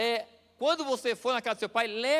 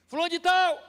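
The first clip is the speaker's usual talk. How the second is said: higher, louder yell of the name; shouted name; 9 semitones higher, 8 dB louder than usual. Retold or imitated. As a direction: holler the father's name across the shop. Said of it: "ele pegou e gritou". (o rapaz gritando o nome do pai na loja, bem alto)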